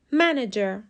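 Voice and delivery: منیجر with the stress on the first syllable, MAN-ager; the correct منیجر, first syllable strong; منیجر, first syllable stressed and the rest light. Shown as a demonstration.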